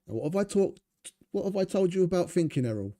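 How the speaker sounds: mock-scold him like a crime boss; lightly voiced gangster telling off his heavy; imitating Bricktop. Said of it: "one of Bricktop's heavies".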